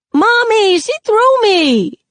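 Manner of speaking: put-on high, slow, loud little-kid whine; whining. Sakani complaining to Mommy after being shoved, high slow whine. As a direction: wail it to Mom like a tattletale. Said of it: "he whines".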